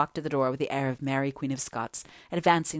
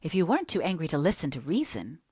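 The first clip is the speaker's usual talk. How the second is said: exasperated. Acted. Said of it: "thoroughly exasperated".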